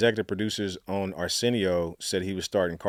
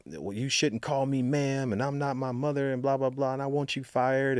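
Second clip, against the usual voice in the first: mock irate celebrity; 6 semitones higher than usual. Retelling a famous celebrity who got upset, higher mock indignation. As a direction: imitate an offended star demanding a firing. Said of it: "She was just like".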